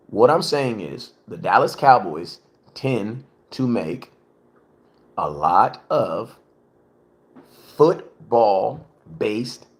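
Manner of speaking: deliberate, slow, spaced-out words. Shown as a demonstration. Streamer explaining Cowboys point slowly. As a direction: spell it out slowly like to a child. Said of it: "Let me slow it down".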